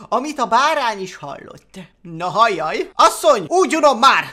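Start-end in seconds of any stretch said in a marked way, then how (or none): 2.0-4.3 loud, fed-up farmer ranting; a bored farmer declaring a new menu; farmer grumbling. Acted. Farmer complaining to his wife, loud and fed up. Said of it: "a gazda ekképpen beszélgetett feleségével".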